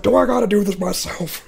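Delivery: mock exasperated boss. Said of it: "just yelling at people".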